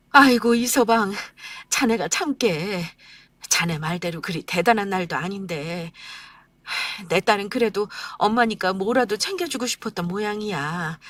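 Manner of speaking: put-on gentle old mother calming her son-in-law; smooth it over, apologetic; mother calming son-in-law at dinner; soothing elderly mother.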